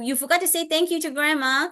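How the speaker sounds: high, lilting parental prompt; singsong modeled reminder; gentle reminder. Acted. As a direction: lightly act a parent reminding a child.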